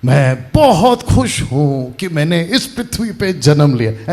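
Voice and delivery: slow, lightly acted grand announcement; imagined Jesus speech. Preacher imagining Jesus's first words to the crowd, lightly acted slow proclamation. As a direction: play a happy first proclamation, drawn out a little. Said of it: "इनके मुंह से पहला शब्द निकलेगा".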